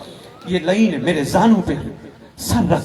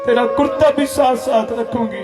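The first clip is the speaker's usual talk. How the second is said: put-on higher, keening lament for a lost baby; grieving mother's wail; 5 semitones higher than usual. Mother mourning her infant son at his grave, wailing. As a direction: cry it out, rocking the little shirt. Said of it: "कुर्ता हिला हिला के कहती है".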